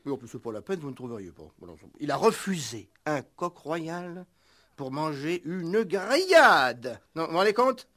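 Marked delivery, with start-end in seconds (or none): 1.6-7.0 scandalized disbelief. Acted. Owner outraged by grill order.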